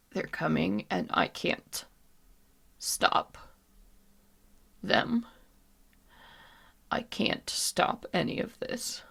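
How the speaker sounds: soft, halting half-whisper; breathy, helpless. Acted. Jada as the figures rise, breathy helpless warning. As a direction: force it out between heavy breaths. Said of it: "she's breathing very, very heavy".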